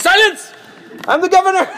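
high, loud mock command; imperious outburst. Governor silences his questioning servants, imperious outburst. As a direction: cut them off with hammed-up authority.

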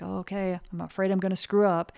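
afraid. Retold or imitated. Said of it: "It's gonna be like".

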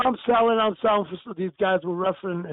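ordinary delivery

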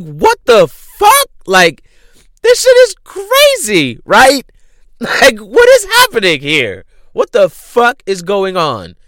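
very high, loud incredulous outburst; outraged disbelief. Retold or imitated. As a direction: act out her shock, voice shooting way up. Acting out wife learning of affair.

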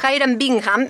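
English name with Germanic consonants; proudly Germanic English pronunciation; Germanic-sounding English. Shown as a demonstration. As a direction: show off a Germanic take on English. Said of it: "con una cierta pronunciación germánica en inglés".

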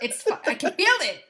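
high, laughing protest; laughing insistence. Real, not acted. Host told she's crazy about the plug, laughing insistence.

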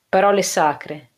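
slow, level "Parole sacre" said as a solemn vow; serious. Acted. Man answers the girl with their oath, slow and solemn. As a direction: give "Parole sacre" slowly and gravely, falling at the end. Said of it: "dissi seriamente".

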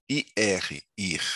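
letters "I R" named, then "ir" sounded alone; first syllable spelled. Shown as a demonstration. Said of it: "primeira sílaba". (soletrando "I R", depois a sílaba "ir")

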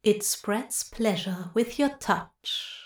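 soft seductive murmur; a quiet tempting purr. Acted. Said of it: "Nox murmured seductively".

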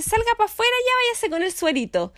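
personal que despacha. Retold or imitated. (imitando al personal de salud, con voz aguda)

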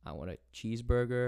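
lightly put-on American accent; a self-conscious hint of American. Shown as a demonstration. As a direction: order food in a careful American accent. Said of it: "I can do an American accent".

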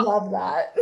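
high laughing squeal after the words; amused laugh at the chocolate story. Real, not acted. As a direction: break into a giggle.

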